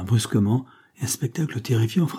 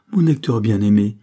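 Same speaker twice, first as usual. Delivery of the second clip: desperate plea; 7 dB louder than usual. Acted. Carmela throws herself at his feet.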